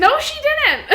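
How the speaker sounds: loud, high laughing protest; emphatic denial. Real, not acted. Protesting loudly to her teasing friend, high and loud. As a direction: shout down the accusation.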